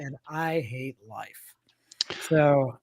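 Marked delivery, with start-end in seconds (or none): 0.0-1.5 slow, softer whispered groan of gloom; mock despair whisper. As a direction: whisper it like life is hopeless. Mock despair about the Orioles.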